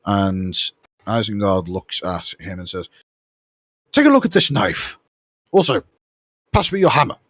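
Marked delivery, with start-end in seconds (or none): 3.9-7.2 high, loud brusque orders; commanding. Acted. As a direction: boss the apprentice around. Isengard orders the man.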